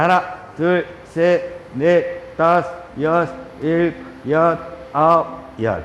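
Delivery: evenly spaced yoga count; exercise count. Real, not acted. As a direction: call out each number on the beat. Counts out knee presses. (일정한 간격으로 구령 세기)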